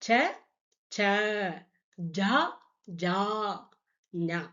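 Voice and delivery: ச, ச, ஜா, ஜா, ஞா spaced out and clearly sounded; Hindi ca-row recited. Shown as a demonstration. Teacher asking students to listen, careful syllable recitation. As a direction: say ச ச ஜா ஜா ஞா so the differences are heard. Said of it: "உச்சரிப்பை கேட்டுக்கங்க".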